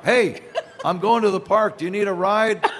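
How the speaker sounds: imitated call to passers-by; mild mock yell. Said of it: "he could just yell out".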